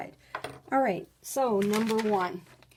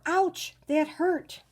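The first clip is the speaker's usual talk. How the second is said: high, loud mock yelp of pain; exclamation of pain; 9 semitones higher, 6 dB louder, much slower than usual. Shown as a demonstration. Teacher reading the sentence aloud, a high loud mock yelp. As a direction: cry out as if hurt. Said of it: "Both exclamation marks".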